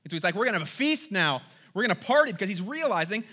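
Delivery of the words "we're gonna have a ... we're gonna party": excited party cheer. Acted. Joseph voiced planning feast.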